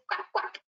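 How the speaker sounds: whispered quack; breathy duck noise for the toddlers. Shown as a demonstration. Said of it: "The duck says".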